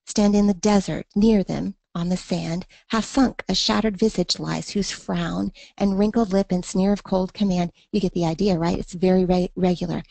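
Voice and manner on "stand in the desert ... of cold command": steady, rhythmic reading of the sonnet; poem reading. Shown as a demonstration. Teacher reading the poem aloud so students hear the meter. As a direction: read the lines letting the regular meter show.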